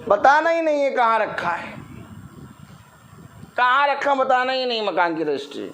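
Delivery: put-on secretive old parent. Old parent guarding house papers.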